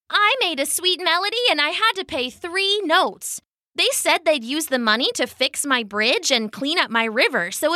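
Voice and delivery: high-pitched otter with a grievance; friendly otter. Acted. Otter tells her grievance.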